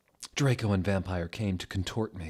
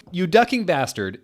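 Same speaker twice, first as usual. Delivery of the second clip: loud, higher mock yell at a rival; 9 semitones higher, 7 dB louder than usual. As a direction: really throw the insult at him. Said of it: "yelled Draco at Vampire".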